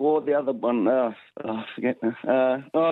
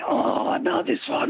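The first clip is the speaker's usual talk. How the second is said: high eager recognition; excited; 13 semitones higher than usual. Real, not acted. Caller to host, excitedly recognizing the question. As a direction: jump on it, thrilled.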